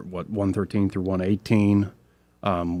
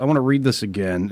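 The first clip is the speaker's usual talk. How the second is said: ordinary talk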